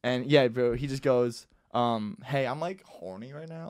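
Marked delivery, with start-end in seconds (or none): 2.2-3.7 1 casual. Retold or imitated. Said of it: "Like, very casual".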